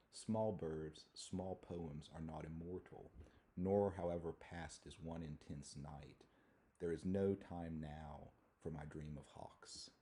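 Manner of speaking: slow, measured reading of verse; poem reading. Acted. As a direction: read it out slowly as verse. Reads a poem aloud.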